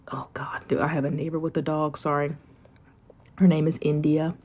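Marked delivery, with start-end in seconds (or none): 0.1-2.3 hushed whisper to the mic. Real, not acted. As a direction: whisper the aside. Aside about barking neighbor dog.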